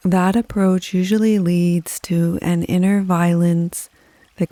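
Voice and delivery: calm, even yoga nidra voice with long pauses; guided meditation. Acted. Teacher easing listeners with chronic pain into yoga nidra, calm guided meditation. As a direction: guide them gently, phrase by phrase, unhurried and steady.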